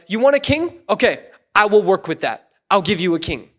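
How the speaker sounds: mildly obliging, question lifted then settling; loving, responsive. Acted. Preacher voices a loving God answering the Israelites, mildly accommodating. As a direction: accept the request gently, easing down to a calm promise. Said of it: "this loving and responsive God says".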